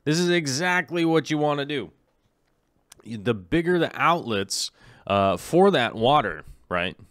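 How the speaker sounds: talking round a toothpick in the mouth. Real, not acted. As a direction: speak with a toothpick between the teeth. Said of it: "Why did Mateo tell me to be careful?".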